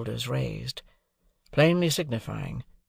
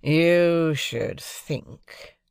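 very slow, sneering echo with YOU stressed; mocking echo; 4 semitones higher, 3 dB louder, much slower than usual. Drummle mimicking Pip, slow mocking echo. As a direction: stretch it out mockingly. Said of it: "retorted Drummle".

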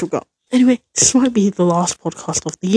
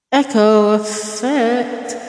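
slow words with digital echo; echo effect; 2 semitones higher, much slower than usual. Shown as a demonstration. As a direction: stretch it out under a heavy echo. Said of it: "I also love this echo".

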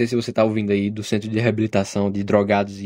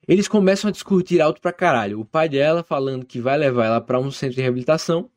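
story narration; 3 semitones higher than usual. A narrator's reading. Reads listener's story aloud.

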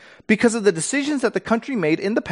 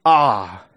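nonsense word ah; 9 semitones lower, 4 dB louder than usual. Shown as a demonstration. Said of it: "just this nonsense word".

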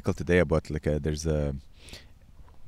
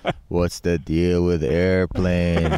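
standup comic bit; 2 semitones lower, slower than usual. Retold or imitated.

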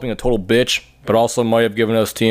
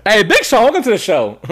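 put-on high, bubbly valley girl accent; valley girl accent, chirpy and upbeat; 10 semitones higher, 4 dB louder than usual. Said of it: "We're gonna do a white girl accent".

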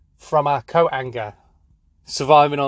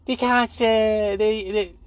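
very high-pitched moaning Scouse caricature; high, halting football pundit's whinge; Roy Keane; 7 semitones higher than usual. Acted. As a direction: moan in a silly, squeaky Scouse voice. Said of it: "he's constantly moaning. He's like".

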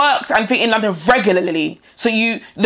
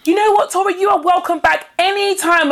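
much higher, mock-sweet invitation; imitating the hostess; 7 semitones higher than usual. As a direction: parody her cheerful welcome, pitched way up. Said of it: "the woman had the cheek to say to me".

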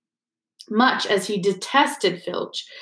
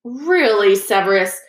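louder, sharp rebuke; sharply; 5 dB louder than usual. Acted. McGonagall rebuking Snape, sharp and loud. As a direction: cut him off with a sharp reproach. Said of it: "said Professor McGonagall sharply".

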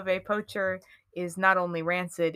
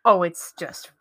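laughing whisper. Real, not acted.

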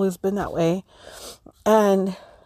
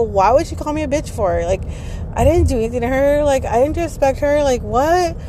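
higher-pitched, incredulous retort; retold indignation, pitched up and quick; indignant protest; 5 semitones higher than usual. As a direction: protest your innocence in disbelief. Retelling her reaction to the insult.

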